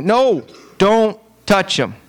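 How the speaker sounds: high, slow drawn-out whining "No"; whiny protest. Pretend. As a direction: drag out the plea like a sulking child. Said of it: "Then you".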